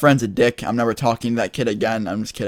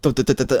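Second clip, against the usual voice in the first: rapid repeated thudding syllables; imitated pounding heartbeat; 2 semitones higher, faster than usual. Storyteller mimics their heart after the cop leaves, imitated pounding. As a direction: stutter out a racing heart sound. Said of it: "My heart just".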